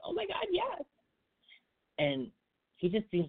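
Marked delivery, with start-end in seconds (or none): 0.0-0.8 squealed high, imitating an eager girl; mock-gush it up high like she can't wait; gushing yes. An imagined ex eagerly agreeing to stay friends, high squeal. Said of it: "she was probably like".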